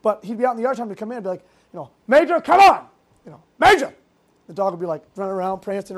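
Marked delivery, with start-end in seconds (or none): 2.1-2.9 loud, higher call across the yard; calling the dog. Retold or imitated. Retelling calling his German Shepherd in, loud call. 3.6-3.9 loud, higher call across the yard; calling the dog. Retold or imitated. Retelling calling his German Shepherd in, loud call.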